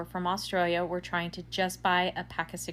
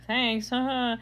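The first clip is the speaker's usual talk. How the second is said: imitating a small, higher laughing thanks; 5 semitones higher, 3 dB louder, slower than usual. Australian couple thanking their translator after getting cigarettes, laughing. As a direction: thank her through a light imitated laugh. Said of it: "they kinda laughed and were like".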